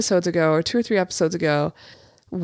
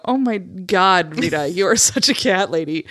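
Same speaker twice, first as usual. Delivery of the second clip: amused exclamation. Retold or imitated. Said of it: "made me go".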